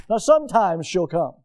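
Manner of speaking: "sometimes" punched above the rest; heavy emphasis on the word "sometimes"; stress on SOMETIMES. Shown as a demonstration. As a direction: lean hard on "sometimes". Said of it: "Emphasis on the sometimes".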